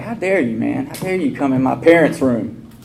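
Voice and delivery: hammed-up outrage, half laughing; mock indignation. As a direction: play the offended drunk for laughs. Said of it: "My second thought was I was pissed".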